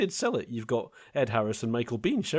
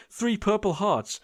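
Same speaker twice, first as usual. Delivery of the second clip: officer reading medals; 8 semitones higher than usual. Retold or imitated. Quoting officer listing medals.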